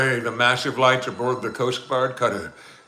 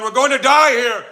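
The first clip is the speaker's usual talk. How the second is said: panicked cry; 14 semitones higher, 9 dB louder than usual. Acted. Becky panicking as boat sinks.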